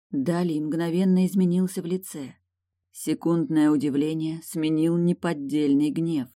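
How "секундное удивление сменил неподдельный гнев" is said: plain reading voice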